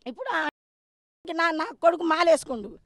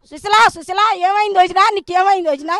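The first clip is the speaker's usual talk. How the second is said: louder, mock-worried calling of her name; feigned innocent concern; 7 dB louder than usual. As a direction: act as if he knows nothing, calling out in fake alarm. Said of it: "ఏం ఎరగనట్టు, ఏం తెలియనట్టు". (ఏమీ తెలియనట్టు నటిస్తూ ఆందోళనగా పిలవడం)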